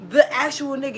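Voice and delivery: laughing through the words; can't hold back a laugh, cracking up. Real, not acted. Telling a friend about an ex, laughing.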